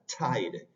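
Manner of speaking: tide said as chaid, a heavy ch; tide with a ch sound. Shown as a demonstration. Teacher modelling the English t of tide. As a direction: spit out the t of tide as a dry ch. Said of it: "ese es el fonema de la T mayúscula".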